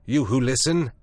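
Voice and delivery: high, loud calling cry; cried out. A narrator's reading. Prendick cries out past Moreau to the beastmen. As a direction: call out past him. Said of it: "I cried".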